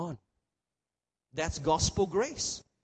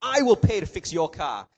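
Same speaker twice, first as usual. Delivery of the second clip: a louder, earnest promise to pay; louder kind reassurance; 6 dB louder than usual. Acted. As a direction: make the generous promise out loud. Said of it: "Don't worry about it".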